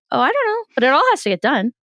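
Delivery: high, airy, carefree answer; breezy shrug. Retold or imitated. Answering her husband's complaint with a high breezy shrug. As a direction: brush it off lightly and high. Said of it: "and I'm like".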